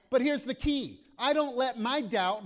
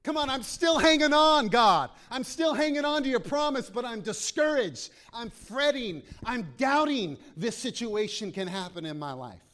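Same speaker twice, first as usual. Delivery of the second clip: loud, pleading prayer, higher and louder; pleading Abram; 4 semitones higher, 6 dB louder than usual. Retold or imitated. Preacher voicing Abram begging God, loud plea. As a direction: cry out to God, still hanging on. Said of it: "Instead, he says".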